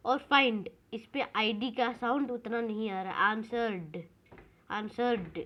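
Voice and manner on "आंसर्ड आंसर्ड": "आंसर्ड" closing straight on d; no "id" ending. Shown as a demonstration. Teacher tests the word for the class, "आंसर्ड" without an id syllable. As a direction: end "आंसर्ड" on a bare d, no extra syllable. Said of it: "इस पे भी आईडी का sound नहीं आ रहा".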